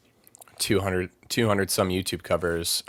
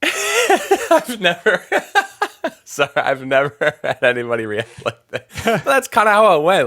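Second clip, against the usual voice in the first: high giggling through the words; can't stop laughing while talking; real laughter breaking up the line; 11 semitones higher, 7 dB louder than usual. Real, not acted. Laughing fit at host's reaction.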